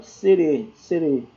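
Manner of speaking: "serê" with a closed, tight E; closed E vowel. Shown as a demonstration. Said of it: "mais fechado". ("serê" com E fechado)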